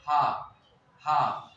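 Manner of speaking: "हा" repeated from an open throat; separate, demonstrative "हा" sounds from the throat; throaty "हा" demo. Shown as a demonstration. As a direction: widen the throat on each "हा". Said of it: "हा ये गला अंदर का फैलता है".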